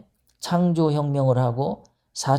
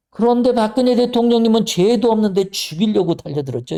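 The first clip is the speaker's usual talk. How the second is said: higher and louder, outraged; indignant outburst; 6 semitones higher, 4 dB louder than usual. Real, not acted. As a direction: burst out in real indignation. Outraged at Park's treatment.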